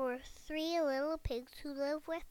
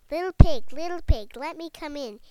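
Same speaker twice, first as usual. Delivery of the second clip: loud wolf call, pitched up; 3 semitones higher, 16 dB louder than usual. A narrator's reading. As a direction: bellow it at the door like a wolf. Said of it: "he cried".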